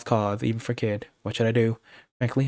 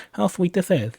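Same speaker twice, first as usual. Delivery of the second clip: gloating goblin; 7 semitones higher than usual. Acted. Boss goblin gloating over captured Kid.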